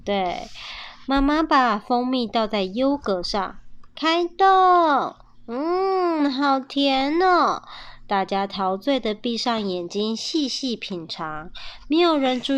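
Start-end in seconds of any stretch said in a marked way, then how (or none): 4.0-7.6 delighted. A narrator's reading. Mother tastes the honey.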